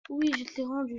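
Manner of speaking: irritated repeat, a bit firmer; insist, losing patience; getting annoyed. Real, not acted. Repeating to someone off camera, irritated. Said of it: "Je m'énerve, hein".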